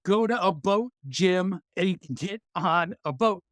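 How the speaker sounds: put-on light Canadian accent on the order. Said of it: "speaking in a Canadian accent there".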